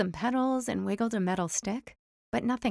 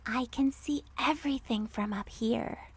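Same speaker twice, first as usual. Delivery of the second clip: mouse voice; 3 semitones higher, 6 dB quieter than usual. A narrator's reading. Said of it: "what she thought was".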